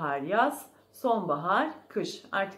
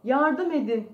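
loud, high-pitched cry for help; 6 semitones higher, 7 dB louder than usual. A narrator's reading. Unseen voice calling to the mouse, loud cry for help. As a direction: call out urgently for rescue. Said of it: "diye bir ses duydu".

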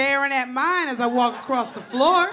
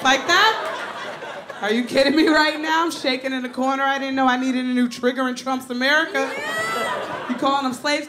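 outraged disbelief; 5 semitones higher than usual. Real, not acted. Outraged at roommate's word.

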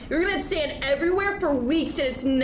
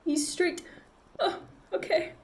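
cutesy greeting; 8 semitones higher than usual. Real, not acted. Streamer greeting a mouse on screen, cutesy. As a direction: coo a little higher at a pet.

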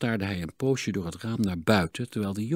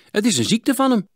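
1 villagers' gossip; 13 semitones higher, 8 dB louder than usual. A narrator's reading. Villagers' remark voiced.

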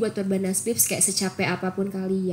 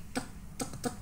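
footstep sound; 12 dB quieter than usual. Retold or imitated. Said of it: "bunyinya bener-bener kayak".

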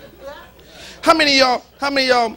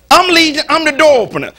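boastful demon; 3 semitones higher, 6 dB louder than usual. Acted. Preacher voicing the demon boasting.

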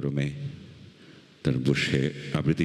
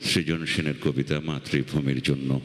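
poem recitation; 3 semitones higher than usual. Acted. Reciter recalls childhood smoke for festival audience, measured poem recitation. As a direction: recite it as a memory, pausing after each phrase.

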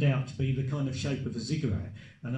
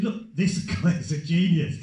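higher, emphatic pitch to the boss with a laugh; retold urging; 3 semitones higher, 5 dB louder, slower than usual. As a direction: retell an insistent plea, loud and drawn-out at the end. Retells urging boss to hire.

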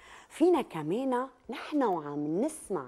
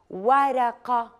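slow repeat; 2 semitones higher, 4 dB louder, much slower than usual. Shown as a demonstration. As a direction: say it again very slowly and a bit louder. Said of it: "اصغوا جيداً".

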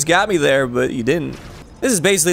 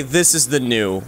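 ordinary delivery

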